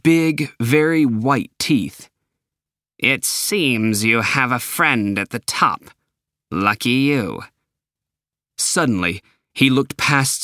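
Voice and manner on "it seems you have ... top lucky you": lightly voiced smug boss; a touch of cold mockery; sneering boss. Boss needling Sam about his friend, lightly voiced and sneering.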